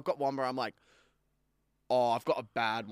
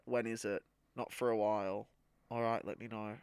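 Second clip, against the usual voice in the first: usual speaking voice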